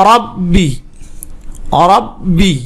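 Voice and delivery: "রব্বি" in two parts, held on the double b; pronunciation demo. Shown as a demonstration. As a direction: say "রব্বি" slowly and separately for learners. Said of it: "উচ্চারণ করে পড়বেন". ("রব্বি" থেমে স্পষ্ট উচ্চারণ)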